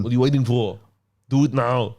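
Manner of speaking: mock action hero goading; film-hero impression, urging the enemy; Arnie.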